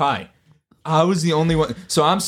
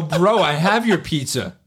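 laughing while talking; 5 semitones higher than usual. Retold or imitated. Retold line, laughing through it.

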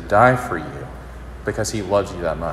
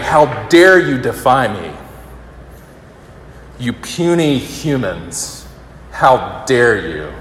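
slow, booming villain scorn; lightly hammed-up supervillain; Thanos-style god; 3 semitones higher, 4 dB louder, slower than usual. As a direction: sneer down at the puny humans. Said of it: "in a Thanos type way".

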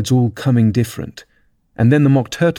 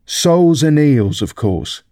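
high, drawn-out opening then dropping; rather impatient; 5 semitones higher, slower than usual. A narrator's reading. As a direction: answer as if it were obvious. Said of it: "replied rather impatiently".

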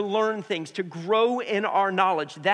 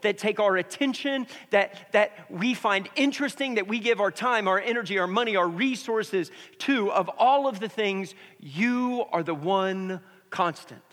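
earnest prayer. Acted. Pastor praying over church before sermon, reverent and hushed at the end. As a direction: pray over the congregation, hushing toward the close.

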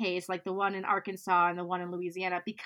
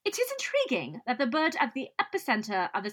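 put-on British accent. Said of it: "he's British, so he probably goes".

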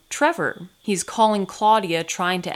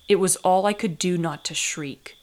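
usual speaking voice

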